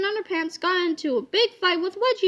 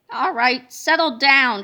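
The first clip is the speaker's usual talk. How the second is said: mild shout; 4 semitones lower, 5 dB louder, slower than usual. Acted. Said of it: "shouted Miss Ribble".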